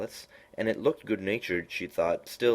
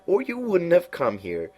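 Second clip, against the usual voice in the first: high, slow, drawn-out cat voice; lofty knowing cat, high and slow; Cheshire Cat voice; 11 semitones higher, 6 dB louder than usual. A narrator's reading. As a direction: purr it out like a sly grinning cat.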